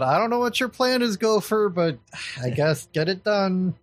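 mild yell, pitched well up. Acted. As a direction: call out to a comrade in exasperated resignation. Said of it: "Victoria's just gonna yell out".

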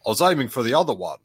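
put-on quick line in a mild New Zealand accent; a light New Zealand accent, fast. Host quoting the bounty hunter with a light New Zealand accent. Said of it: "Pardon my accent".

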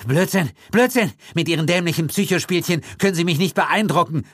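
high, defiant outburst; cornered man calling out defiantly. A narrator's reading. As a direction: brush it off with defiant bluster. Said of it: "rief Gildritch trotzig".

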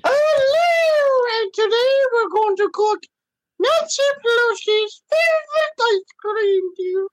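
put-on very high falsetto old-lady cooking-show voice; sweet granny host in shrill falsetto; Mrs. Doubtfire impression. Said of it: "you sound like that Robin Williams movie".

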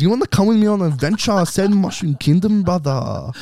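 loud high Aussie bogan Mario; Mario as a Western Suburbs bogan, loud and broad; Western Suburbs accent. Retold or imitated. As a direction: yell it like a Western Suburbs lad. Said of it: "Mario from the Western Suburbs".

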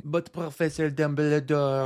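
quoting the film in a big mock French accent; exaggerated French accent from Harry Potter; movie French accent. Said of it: "one of the Harry Potter movies".

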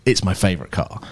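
put-on lightly French-accented, shy and struggling English; hint of a hesitant French accent. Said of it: "in this French accent".

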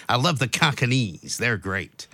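lightly imitated American mafia accent, saying "Cockneys" the wrong way; a hint of an American gangster; mock American mafioso. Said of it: "He's like".

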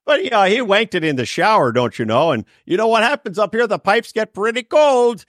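put-on Minnesota accent. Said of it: "that's the accent is".

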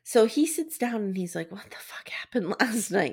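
hushed, giggly retelling; a mock-hushed whisper of a dazed morning question; laughing whisper.

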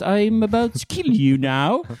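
a lightly put-on British accent, high and menacing; mock-threatening in a weak British accent; bad British accent. Farmhand imitating the aristocrat's British threat. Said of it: "med så British accent".

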